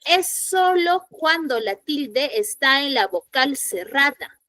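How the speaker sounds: el hiato acentual and es solo cuando said slowly, each word weighted; slow, stressed rule. Shown as a demonstration.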